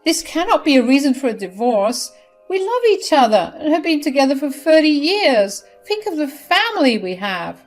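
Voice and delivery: high, loud, mock-tearful mother begging; wife begging her husband not to divorce her, mock tearful; crying plea. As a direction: plead with her husband through pretend tears. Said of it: "She cried and said".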